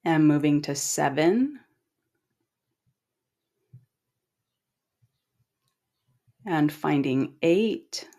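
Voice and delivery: calm, unhurried guiding voice with long pauses; measured relaxation cues, each left to settle; guided meditation. Acted. Guide leading listeners through eye relaxation, calm meditation voice.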